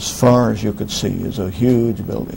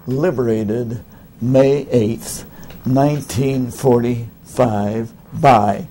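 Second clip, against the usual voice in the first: slow inscription reading; much slower than usual. Retold or imitated. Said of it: "etched in there this line".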